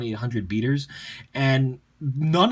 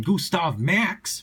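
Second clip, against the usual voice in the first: "Gustav Max" stretched out slowly, pitched up; drawn-out showy name; 4 semitones higher, much slower than usual. Real, not acted. Deck presenter announcing a favorite card to viewers, drawn-out and showy. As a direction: draw out "Gustav Max" like a grand title, rising at the end. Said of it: "because I have to say it like that".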